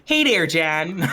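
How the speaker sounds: put-on Wisconsin accent. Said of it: "the first thing I heard was".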